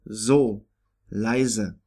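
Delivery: so and leise with a voiced Z sound. Shown as a demonstration. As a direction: buzz the S in so and leise like English Z. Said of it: "pronounced like Z in English".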